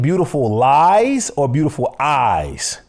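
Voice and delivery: LIES set against EYES, pitch rising then falling; contrastive stress. Shown as a demonstration. Host checking the song title, contrastive stress on Lies and Eyes. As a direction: lean on "Lies" and on "Eyes" as two options. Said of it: "Now, are you saying".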